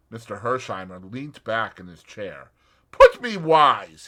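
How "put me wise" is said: slow and clipped, louder; just tell me plainly; curt American. A narrator's reading. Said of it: "he said succinctly".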